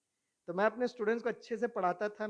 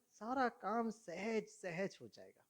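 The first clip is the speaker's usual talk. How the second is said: slow soft emphasis; 3 semitones higher, 6 dB quieter, slower than usual. Acted. Preacher drives home the point.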